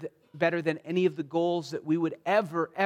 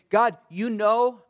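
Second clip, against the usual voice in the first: slow, louder plea to God; crying out; 4 semitones higher, 7 dB louder, slower than usual. Retold or imitated. Psalmist crying out to God, slow fervent plea. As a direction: stretch it out as a desperate appeal. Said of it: "as he cries out to God".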